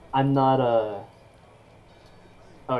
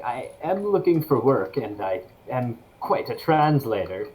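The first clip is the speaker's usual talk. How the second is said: put-on German accent. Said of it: "sorry, this is the wrong accent".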